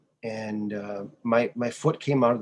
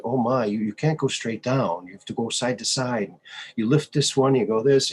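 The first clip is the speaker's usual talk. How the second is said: lightly imitated French accent; French-accented instructor, lightly voiced; 4 dB louder than usual. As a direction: retell it with a hint of a French accent. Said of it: "he had a French accent".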